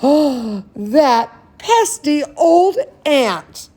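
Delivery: gasp. Acted. Storyteller mock alarm, slowed.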